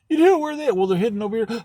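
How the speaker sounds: high, loud excited blurt; bursting to share the secret; excited reveal. Retold or imitated. Townsfolk reveal hidden cannons.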